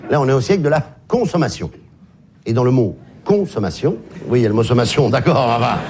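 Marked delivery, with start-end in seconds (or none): 1.1-1.7 CON of consommation set apart and stressed; stress on first syllable. Shown as a demonstration. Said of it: "La première syllabe est quand même très claire". 3.2-4.0 consommation with CON clearly picked out; stress on first syllable. Shown as a demonstration. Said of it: "La première syllabe est quand même très claire".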